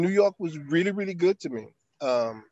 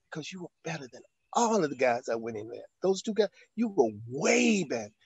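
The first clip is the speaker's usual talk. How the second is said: tearful; 4 dB quieter than usual. Retold or imitated. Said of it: "And she was crying".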